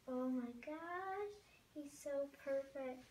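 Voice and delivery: adoring coo. Real, not acted. Gushing over the doll.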